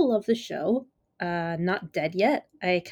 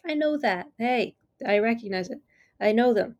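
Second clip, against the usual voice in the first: meme recognition; 4 semitones higher than usual. Retold or imitated. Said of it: "those Leonardo DiCaprio memes where it's like".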